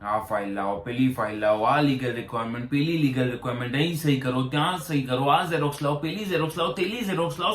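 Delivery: rattled-off list of demands, pitch climbing steadily; mock officious demands. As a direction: imitate officials piling on demand after demand. Mimics officials' endless paperwork demands. (સરકારી બાબુની માંગણીઓની નકલ)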